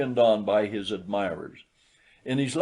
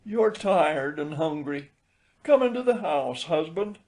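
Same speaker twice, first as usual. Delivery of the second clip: gentle; 6 semitones higher than usual. A narrator's reading. Wife consoles husband.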